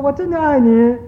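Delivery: drawn-out answering call, as from across a valley; echoed call. Retold or imitated. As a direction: play the echo calling the words back. Mountain echo answering the child. (模仿山谷回声拉长喊回来)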